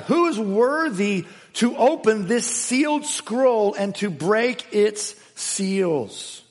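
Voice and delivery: herald's slow, booming call; booming proclamation. Acted. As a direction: cry the question out slowly. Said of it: "with a booming loud voice".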